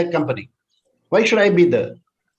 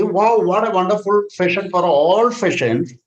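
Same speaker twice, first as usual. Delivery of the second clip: gushing feedback; 3 semitones higher than usual. Shown as a demonstration. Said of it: "If I am expressing this way".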